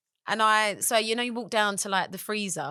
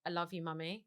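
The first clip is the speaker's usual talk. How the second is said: put-on soft child's voice; 11 dB quieter than usual. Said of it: "my son going".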